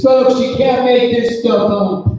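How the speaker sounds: mock-furious TV host, loud and slow; furious Hannity. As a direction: ham up an outraged pundit booming at the camera. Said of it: "and he's furious".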